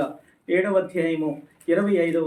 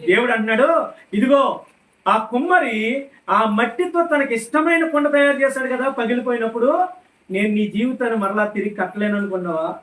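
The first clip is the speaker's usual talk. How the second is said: raised preacher's voice, driving each question home; fervent preaching; 4 semitones higher than usual. Real, not acted. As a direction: proclaim God's challenge to the congregation. Preaches God's words forcefully. (ఉద్వేగంతో ప్రకటించే ప్రసంగ స్వరం)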